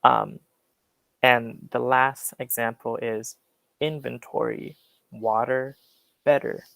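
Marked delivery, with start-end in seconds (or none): 3.8-6.6 American accent. Shown as a demonstration. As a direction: say them the American way, flapped T. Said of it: "in the American way".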